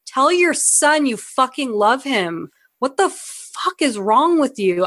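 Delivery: mock-outraged telling-off; exasperated scolding. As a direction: scold a hopeless father in disbelief. Exasperated imagined rebuke to the actor.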